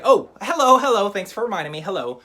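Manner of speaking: loud, high, hammed-up cheerful hello; happy hello. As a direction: thank the kids gladly for reminding you. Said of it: "So the first time's happy".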